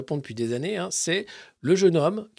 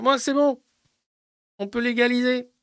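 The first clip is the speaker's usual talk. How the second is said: smug minister; 8 semitones higher, 5 dB louder than usual. Retold or imitated. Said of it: "en disant".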